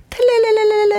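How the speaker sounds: trilled telelele ringtone; ringtone imitation. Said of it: "혜영 언니의 벨소리".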